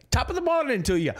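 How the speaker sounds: a comic Irish brogue, cracking up; Irish accent. Acted. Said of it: "Make Roy do another Irish accent".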